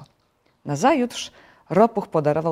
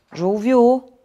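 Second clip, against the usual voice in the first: higher, louder hail; calling out; 7 semitones higher, 7 dB louder than usual. A narrator's reading. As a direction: call someone by name across water. Frog calls to the turtle.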